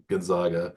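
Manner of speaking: Gonzaga as gon-ZAH-ga; frowned-on Gonzaga. Shown as a demonstration. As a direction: say Gonzaga with a broad AH in the middle. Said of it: "punch you in the face if you say Gonzaga".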